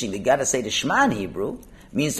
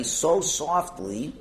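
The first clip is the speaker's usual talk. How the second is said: softer, drawn-out words; very softly; 5 dB quieter, much slower than usual. Shown as a demonstration. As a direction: ease down gently on each word. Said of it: "if I read it very softly".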